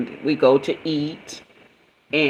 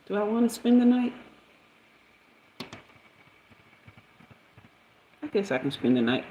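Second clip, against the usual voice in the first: muttered aside; 5 semitones higher, 6 dB quieter than usual. Real, not acted. Muttering aside, reading a message.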